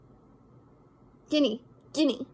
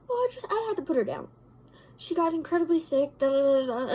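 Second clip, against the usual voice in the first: nonchalant; 3 semitones higher, faster than usual. Retold or imitated. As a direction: toss it off like nothing happened.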